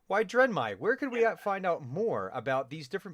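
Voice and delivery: playfully acted inquiry; inquisitive character. Player speaks as his scheming character.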